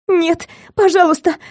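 high, cracking voice, begging; breaking frightened cry. A narrator's reading. Captive crying out to kidnapper, voice breaking in fear. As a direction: plead in terror, voice breaking. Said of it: "крикнула срывающимся голосом".

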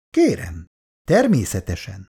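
polite. Acted. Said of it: "Az udvarias hang".

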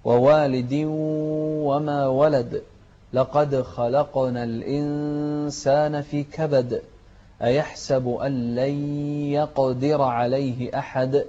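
تلاوة هادئة مرتلة; رتل الآيات بتأن; تلاوة مجودة. Acted. Teacher recites surah. (تلاوة قرآنية مرتلة)

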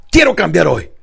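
emphatic, energetic declaration. Shown as a demonstration. Coach correcting a lacklustre client, enthusiastic. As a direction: say it with rallying conviction. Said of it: "con más entusiasmo".

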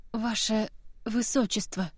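soft, breathy gasp of surprise; breathed out. Acted. Kiva gasping on seeing the princess, soft breathy exclamation. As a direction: exhale the title in shock. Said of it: "выдохнула Кива".

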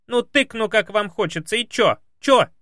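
high, loud protest; arguing maid. Acted. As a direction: push back like a stubborn maid. Maid argues stubbornly.

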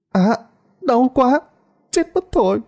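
high, pained cries in labor; crying out in pain. Acted. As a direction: wail it through birth pains. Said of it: "những tiếng la hét của bà Hạnh kêu lên đầy đau đớn".

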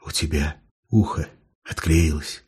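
low, quiet smirking remark. A narrator's reading. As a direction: dryly point out the fake ear. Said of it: "хмыкнул патрульный".

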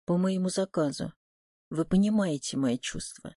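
ordinary delivery, nothing marked

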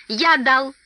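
frightened squeak. A narrator's reading. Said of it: "пискнул до смерти перепуганный Бильбо".

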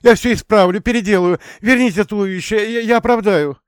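high, loud, panicked pleading; terrified begging. Acted. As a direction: beg for your life in terror. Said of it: "Лицо исказилось ужасом, а губы продолжали умолять".

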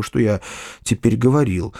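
ordinary delivery

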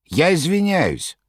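Koroviev exclaiming. Acted. Koroviev objecting to the master, high clownish cry. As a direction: exclaim like a jester. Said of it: "вскричал Короев".

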